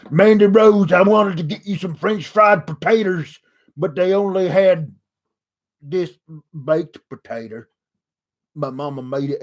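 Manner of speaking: Sling Blade impression. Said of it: "doing Billy Bob Thornton and Sling Blade".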